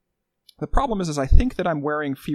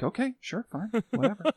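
dismissive; 6 semitones higher, 6 dB quieter than usual. Retold or imitated. Dismissive boss quote.

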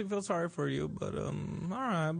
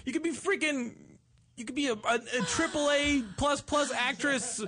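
higher, teasing mock flattery; mock praise; 8 semitones higher than usual. Host mockingly praising the guest's acting. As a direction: gush at her like a fan, tongue in cheek.

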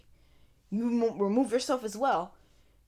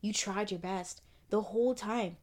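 much softer, tender reassurance to herself; gentle self-comfort; 5 semitones lower, 5 dB quieter than usual. Retold or imitated. Telling herself she did her best, hushed and tender. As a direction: soothe your younger self softly. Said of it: "When I was like".

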